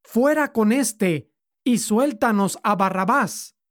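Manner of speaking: a lightly voiced crowd yell; crowd shouting. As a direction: call it out as the demanding mob. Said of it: "dio voces a una".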